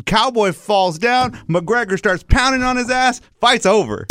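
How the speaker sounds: high-pitched, breathless-style play-by-play; excited fight recap. Retold or imitated. Telling coach how the fight ended, hyped. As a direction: call the finish like a commentator.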